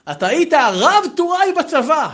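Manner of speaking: high, slow drawn-out teasing jab; mocking tease. Student teasing the rabbi about his army rank, mocking. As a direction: rib him, stretching the rank word.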